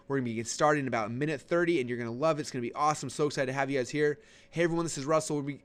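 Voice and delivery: high, bright, pumped host greeting; high-energy pre-show host welcoming the audience; hyped webinar intro. Shown as a demonstration. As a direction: sell the energy like a hype host. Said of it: "I like getting on and just saying".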